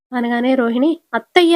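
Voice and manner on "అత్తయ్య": high, loud cry of అత్తయ్య; desperate raised yell; shouting. Retold or imitated. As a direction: stand up and shout at the mother-in-law. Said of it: "లేచి అరుస్తది".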